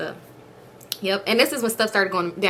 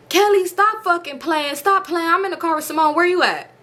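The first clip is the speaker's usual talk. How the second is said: irritated scolding; 7 semitones higher than usual. Retold or imitated. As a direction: imitate him fed up with her games. Retold scolding over the phone.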